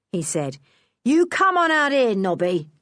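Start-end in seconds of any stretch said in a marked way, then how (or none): 1.0-2.7 higher, louder gruff summons; rough man calling out. Acted. Lou ordering Nobby out of the tunnel, gruff call. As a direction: call the boy out like a bully.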